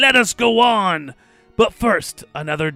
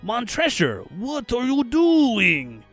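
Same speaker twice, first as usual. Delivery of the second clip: high, loud, drawn-out cry; slow, stretched cry of alarm; acted alarm; 11 semitones higher, 7 dB louder, much slower than usual. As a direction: call out in rising disbelief. Fortunato alarmed as wall rises.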